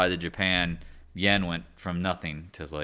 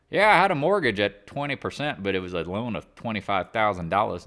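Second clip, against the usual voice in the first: hillbilly; 3 semitones higher, 5 dB louder than usual. Retold or imitated. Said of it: "me talking like a hillbilly".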